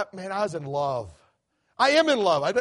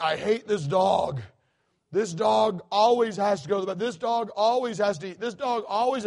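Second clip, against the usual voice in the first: whiny complaint. Retold or imitated. Daughter complaining about the dog.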